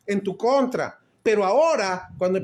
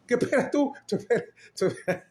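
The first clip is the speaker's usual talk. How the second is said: joking tease; 3 semitones higher, faster than usual. Real, not acted. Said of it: "Es un chistecito".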